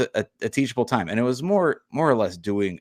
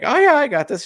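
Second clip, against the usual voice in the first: put-on child voice; 7 dB louder than usual. Eager daughter quoted.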